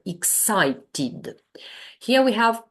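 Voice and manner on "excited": EXCITED carefully syllable by syllable, ending "tid"; pronounced -ed vowel. Shown as a demonstration. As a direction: sound out EXCITED without dropping the final vowel. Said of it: "we cannot omit using this vowel sound".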